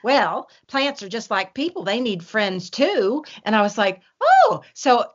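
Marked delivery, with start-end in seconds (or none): 0.0-3.2 imitated grandmother in a Kentucky accent, slightly raised pitch. Retelling grandmother explaining why she talks to plants, Kentucky accent. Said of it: "in her very Kentucky accent". 4.2-4.6 high, loud "oh" of discovery; retold realization. Grandchild reacting to Granny's explanation, high-pitched mock wonder.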